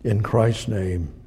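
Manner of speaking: earnest prayer to God; closing prayer. Acted. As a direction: lead the congregation in prayer.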